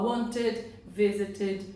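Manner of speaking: "wanted" and "visited" ending in a sounded "ted"; ED syllable. Shown as a demonstration. Teacher giving T-ending examples, "wanted" and "visited" with ED sounded. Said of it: "é quando termina em T".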